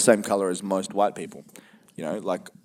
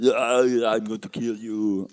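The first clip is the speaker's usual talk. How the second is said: slow, drawn-out mock threat; lightly voiced action hero, dragging the words; Arnie in Predator; slower than usual. Retelling Predator to his co-host, slow mock menace. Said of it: "but then, but then he goes".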